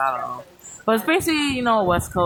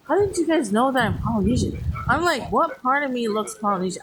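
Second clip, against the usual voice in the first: amazed; 6 semitones higher than usual. Retold or imitated.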